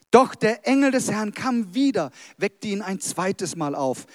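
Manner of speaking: dramatic storytelling with drawn-out phrases; story narration. Acted. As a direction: tell it slowly, building to each reveal. Continues reading the story. (dramatisch vorgelesene Geschichte)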